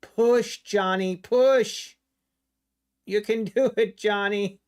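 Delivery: root for it like a race; cheering. Pretend. Cheering the price upward.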